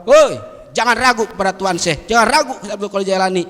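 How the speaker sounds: rally the crowd, ending in an excited cry; calling out to the people. Acted. The man tells the people of Egypt about the saint, loud proclamation.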